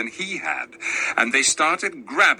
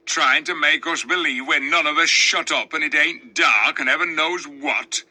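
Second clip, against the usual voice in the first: scornful dwarf. Acted. Sneering dwarf taunting the king.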